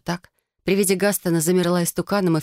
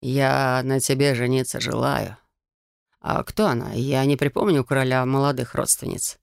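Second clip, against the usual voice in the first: a hint of interested musing; thoughtful; 4 semitones lower than usual. A narrator's reading. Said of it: "произнёс задумчиво".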